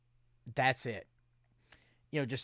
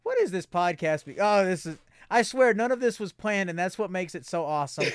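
laughing excitement; 3 semitones higher, 4 dB louder than usual. Real, not acted.

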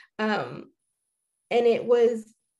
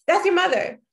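rising scream; 8 semitones higher, 8 dB louder than usual. Retold or imitated. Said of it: "this man started screaming in the street".

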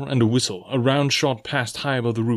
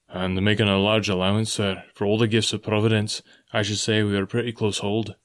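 lightly lowered, steady sea captain voice; a hint of a stern captain comforting the squire; gruff old captain. Captain answers the doctor.

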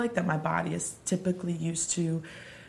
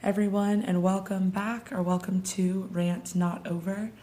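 rusty early-morning voice; rusty unused voice. Real, not acted. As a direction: voice still rusty from sleep. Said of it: "just excuse my voice".

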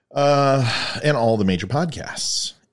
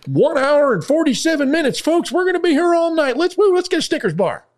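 mock dismay; 4 dB louder than usual. Mock dread at long show.

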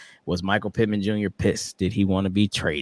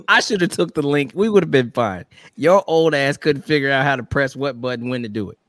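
mock scolding; 4 semitones higher, 4 dB louder than usual. Real, not acted. Teasing scolding of co-host.

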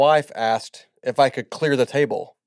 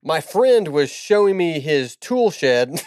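cracking up mid-line; 2 semitones higher, slower than usual. Real, not acted. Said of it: "You can't make it through a joke".

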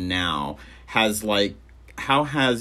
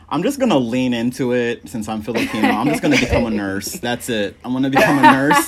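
joking about becoming a nurse; 4 dB louder, faster than usual. Retold or imitated. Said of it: "and I'm all".

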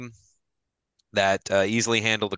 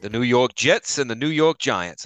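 hammed-up New York accent, higher and louder; mock New York announcer accent; terrible New York accent; 4 semitones higher, 4 dB louder than usual. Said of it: "that is a terrible New York accent".

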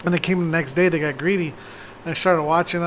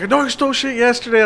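scary threat; 6 semitones higher than usual. Retold or imitated. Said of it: "I really scared them".

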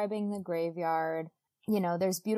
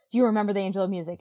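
rushed, louder mock-urgent question; imitating sudden intensity; 5 dB louder, much faster than usual. Woman suddenly quizzing him about the angel, mock intense. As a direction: fire it off, acting out her intensity. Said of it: "gets really, like, intense really fast".

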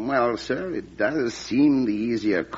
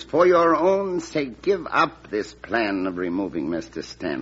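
earnest plea; 3 dB louder than usual. Acted. Clerk pleading with the President.

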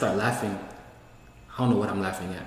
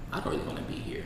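breathy unvoiced whisper; whispered, dazed after trip; 11 dB quieter, faster than usual. Retold dazed feeling after trip.

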